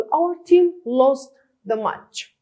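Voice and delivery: words spaced out slowly; teacher reading an example line slowly. Shown as a demonstration. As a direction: read it slowly, as dictation for the class. Reading example sentence for learners.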